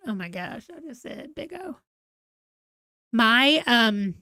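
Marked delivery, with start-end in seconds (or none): 0.1-1.8 mock shocked. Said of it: "I said big O and went".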